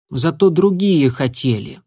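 ordinary delivery, nothing marked

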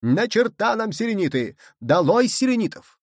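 high, fervent cries; shouted slogans. A narrator's reading. Nicholl rejects Selenites and claims the Moon, high fervent shout. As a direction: call each slogan out, pitched high. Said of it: "кричал Николь".

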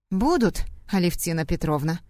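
each word clipped, Будут hit hard; clipped and firm. Acted. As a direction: rap out Будут, Алевтина Петровна crisply. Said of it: "отчеканила я".

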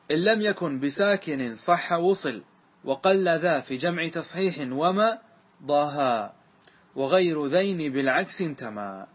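slow chanted verse; verse recitation. Shown as a demonstration. Teacher reciting grammar verse to students, slow. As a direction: draw out each foot of the line. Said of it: "ثم قال".

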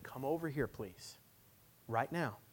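put-on controlled, firm call to a child; firm parental order. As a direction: insist as a parent, dropping on please. Father repeats the order more firmly.

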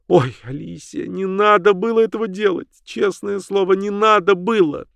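high, pleading cry of dismay. Acted. Sibyl cries out in dismay at Alicia. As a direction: beg her friend to undo it. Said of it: "у неё вырвался слабый крик".

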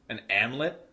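slow imitated Boston accent; Boston waitress accent. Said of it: "she had a real thing".

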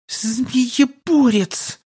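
high, drawn-out venomous hiss; snake-like hiss. A narrator's reading. Snake woman naming her enemy, hissing viciously. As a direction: stretch it slowly like an angry snake. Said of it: "как-то по-змеиному зло прошипела она".

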